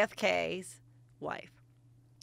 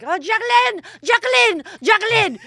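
high, loud crowd calling a name; loud high chant of adoration; adoring crowd cheer; 13 semitones higher, 12 dB louder than usual. Retold or imitated. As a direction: call out like a swooning French crowd.

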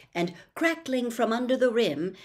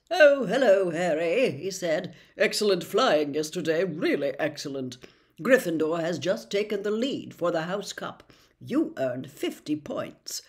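Percy. Acted. Percy voiced in reading.

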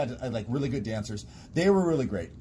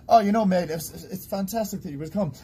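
a quick, hammed-up Australian accent, slipping toward English; a higher, louder try at an Aussie accent that drifts English; mock Aussie accent; 8 semitones higher, 4 dB louder than usual. Shown as a demonstration. Asked on air for his best Aussie accent, a hammed-up Australian accent. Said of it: "Give me your best Aussie accent".

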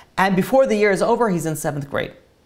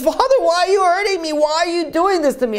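retold scream; 11 semitones higher than usual. Boy crying out to his father as he is hurt, retold scream. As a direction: protest like a screaming child, held short of a real scream. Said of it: "the boy starts screaming".

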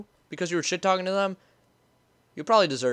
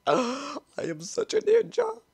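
higher, slow, put-on smug; hiding gamer playfully brags; mock-proud boast; 11 semitones higher, slower than usual. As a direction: savor your own sneakiness.

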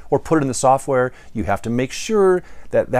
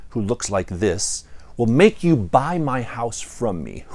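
mild ogre anger; 2 semitones lower than usual. Acted. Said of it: "with steam coming out of his ears".

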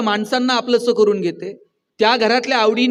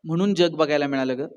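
a son's soft heartfelt thanks, lower at the end; tender thanks to mother; 3 semitones lower, 5 dB quieter than usual. Shown as a demonstration. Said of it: "कधीतरी आईला म्हणा".

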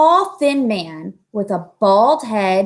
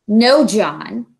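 a mild, reproving no; a touch of doctorly reproach; gentle reproof; 5 dB louder than usual. Acted. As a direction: scold the boy lightly. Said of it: "the doctor reproved him".

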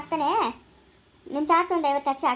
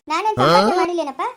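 angry retort; 5 dB louder than usual. Acted. Son argues with father over money.

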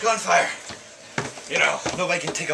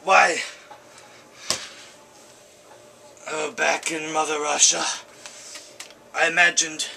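a lightly put-on Russian soldier, lamenting his death; hammed-up deathbed lament in a mild Russian accent; dying Russian soldier.

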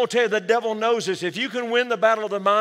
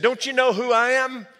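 lightly voiced indignant Satan, a touch higher; Satan's challenge; 4 semitones higher than usual. Satan demands the unmoved old man know him, mock indignant. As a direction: puff up like an offended devil. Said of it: "Satan said".

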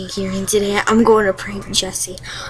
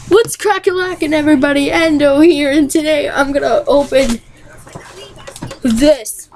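UnlistedLeaf impression; 4 semitones higher than usual. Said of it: "Okay, unlisted leaf".

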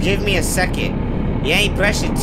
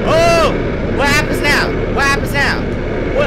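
startled; 7 semitones higher, 4 dB louder than usual. Real, not acted. Startled by game monster.

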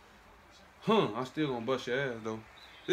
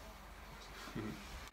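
breathy giggle from being tickled; ticklish breathy laugh; 14 dB quieter than usual. Real, not acted. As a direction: laugh as you get tickled. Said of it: "Don't tickle me".

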